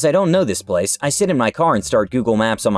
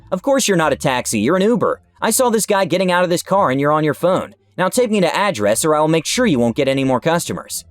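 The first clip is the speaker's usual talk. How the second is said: mild mock shouting, insisting; retold shout; 4 semitones higher than usual. Customer demanding a ride from the narrator, mock angry shout. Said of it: "She is having none of it and shouts".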